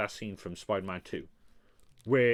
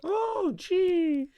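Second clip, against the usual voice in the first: exasperated groan; 3 dB louder than usual. Real, not acted. Exasperated reaction to friend.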